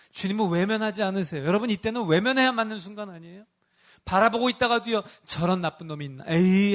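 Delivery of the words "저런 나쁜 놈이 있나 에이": disgusted dismissal. Pretend. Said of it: "하고 외면해야 되는 순간".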